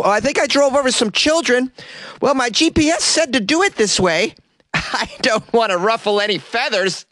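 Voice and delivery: high, loud airhead falsetto; Florida woman voice. Retold or imitated. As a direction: play the clueless driver innocently. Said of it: "The Florida woman said".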